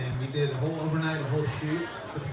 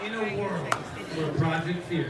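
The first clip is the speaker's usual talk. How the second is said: horror trailer voice; 2 semitones higher, slower than usual. Shown as a demonstration.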